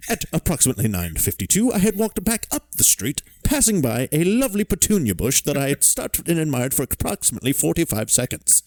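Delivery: high, hammed-up old codger; gruff old man voice. Continuing the Morse bit.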